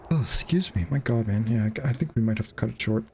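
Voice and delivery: tired voice through yawns; yawning. Real, not acted. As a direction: talk mid-yawn, drowsy. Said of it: "just keep yawning".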